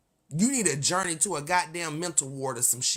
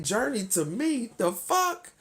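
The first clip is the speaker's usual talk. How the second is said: retold shock; 3 semitones higher, slower than usual. Streamer replaying her shock at Journey's name, rising high. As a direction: replay the moment of disbelief. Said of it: "And I'm like".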